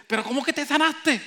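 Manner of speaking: high, loud question through laughter; laughing disbelief. Retold or imitated. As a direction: laugh while doubting the healing.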